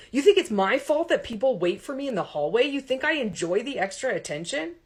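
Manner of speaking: a hint of a resentful actor; indignant young man. A narrator's reading. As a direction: throw the blame back at her. Todd's indignant retort to professor.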